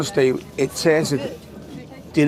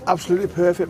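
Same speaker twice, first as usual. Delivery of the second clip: rattly chesty cough voice. Real, not acted. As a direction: talk through a chesty cold. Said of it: "this bloody chesty voice".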